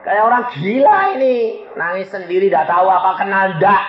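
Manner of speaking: high mock whine; whining. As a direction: complain to God like a whining child. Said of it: "Saya bilang, ngerengek".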